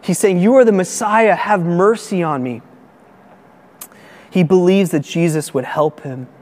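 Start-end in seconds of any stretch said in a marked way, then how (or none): 0.4-2.6 crying out. Retold or imitated. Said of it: "he's crying out".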